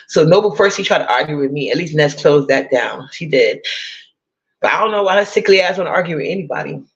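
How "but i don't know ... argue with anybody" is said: a hint of a famous rapper, tossed off quick. Mocking a sickly rival in a light rapper voice. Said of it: "in my rapper voice".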